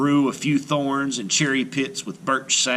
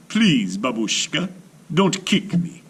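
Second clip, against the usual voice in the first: pleading hedgehog; 7 semitones higher, 3 dB louder than usual. A narrator's reading. Hedgehog voiced.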